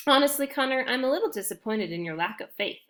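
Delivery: smug, teasing sister; gloating. Acted. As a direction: lord it over her brother a little. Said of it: "Alex gloated".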